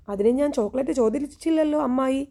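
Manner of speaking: mildly irritated comeback, half-acted; retold angry retort. Navya to her aunt, mildly angry retort. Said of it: "ദേഷ്യത്തോടെ നവ്യ".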